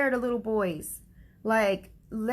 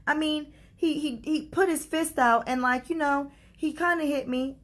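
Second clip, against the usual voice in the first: imitating a little boy in a higher voice; higher, hedging as a child would to his dad; backtracking child; 6 semitones higher than usual. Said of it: "tried to backtrack it and be like".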